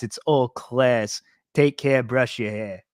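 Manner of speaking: slow New York accent imitation; Cuisine. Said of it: "I just like his accent".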